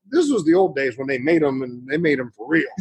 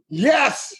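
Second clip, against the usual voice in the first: excited; 5 semitones higher, much slower than usual. Retold or imitated. Thrilled to get a task from Dad.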